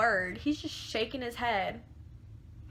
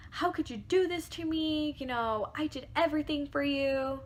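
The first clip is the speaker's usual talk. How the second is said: retold hurt plea; 5 semitones higher than usual. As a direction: appeal to him as the betrayed girlfriend. Retold tearful confrontation with boyfriend.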